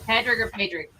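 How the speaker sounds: "Patrick" first as PAD-rick, then as PAY-drick; "Patrick" once short PAD-rick, once long PAY-drick; two pronunciations. Shown as a demonstration. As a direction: contrast the two vowels in "Patrick or Patrick". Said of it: "the first one or the second one".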